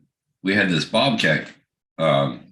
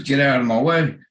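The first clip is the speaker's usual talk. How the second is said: mildly annoyed, higher-pitched radio order; retold irritated order; 7 semitones higher than usual. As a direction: act out an irritated driver. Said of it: "I heard on the radio the excavator driver".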